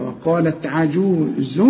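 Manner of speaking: عجوز slow, ain pushed from the throat; slow وقالت عجوز, strong throaty ain; clear ain. Shown as a demonstration. Teacher models ain: slow عجوز. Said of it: "العين هنا بعبعها كده".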